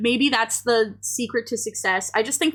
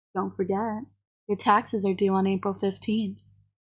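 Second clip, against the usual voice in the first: put-on low, deep, would-be seductive sultry voice; 3 semitones lower, 4 dB quieter than usual. Trying to say the least sexy thing possible, in a put-on low voice. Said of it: "I was doing the low voice".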